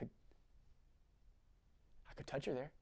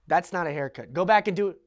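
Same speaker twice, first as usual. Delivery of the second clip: angry order; 8 dB louder than usual. Acted. Father ordering.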